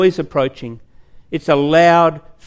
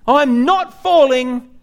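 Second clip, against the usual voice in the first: higher, drawn-out mock yell, very slow; slow mock scream; 7 semitones higher, much slower than usual. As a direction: stretch the denial out as he falls. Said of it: "he's screaming".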